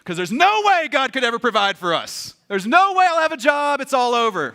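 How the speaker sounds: acted rising panic; hammed-up doom, swelling then falling away; mock freak-out. Worrier sure God won't provide, mock freak-out. Acting out freak-out over money.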